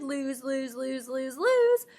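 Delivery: trace the timeline down and jump up at the end; dropping then leaping. Shown as a demonstration. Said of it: "thinking, "Okay, we're starting at the top".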